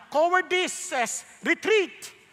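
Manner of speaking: voiced cowardice. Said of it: "Sabi niya".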